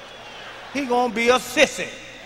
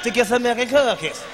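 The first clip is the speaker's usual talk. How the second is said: lightly voiced little boy's reply; a hint of child mimicry; imitated six-year-old boy. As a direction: mimic the boy repeating himself. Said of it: "wanted to hear him say it again".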